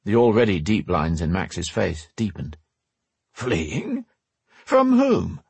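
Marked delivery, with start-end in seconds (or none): 3.3-5.4 put-on alarmed old man. A narrator's reading. Max alarmed.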